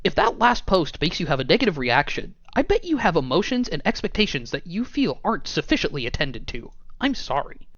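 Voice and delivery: nasal know-it-all nerd. Pretend. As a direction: read it like a smug nerd. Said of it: "I'm gonna read it in a nerd voice".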